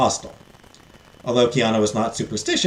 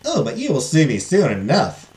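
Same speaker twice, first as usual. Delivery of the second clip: put-on fairy godmother explaining in a Southern accent; lilting Southern-accented fairy; 2 semitones higher than usual. Fairy warning the heiress it will not be easy, Southern accent. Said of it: "give her a southern accent".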